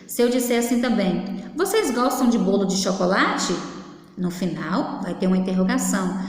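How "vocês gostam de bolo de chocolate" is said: "chocolate" lifted at the end as a question; question intonation. Shown as a demonstration. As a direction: let "chocolate" rise to ask. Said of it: "Até a entonação da minha voz no final".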